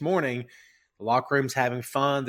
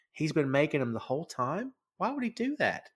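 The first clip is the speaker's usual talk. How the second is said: bewildered wondering; 3 semitones higher, 4 dB quieter than usual. Retold or imitated. Imagined boss's bewildered inner thoughts.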